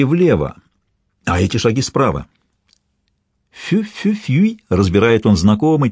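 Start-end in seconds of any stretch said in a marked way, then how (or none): 3.5-4.6 high, drawn-out spoken whistle; imitated whistle. A narrator's reading. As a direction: mimic a signal whistle in thin high syllables. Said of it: "чуть слышный свист". (имитация условного свиста)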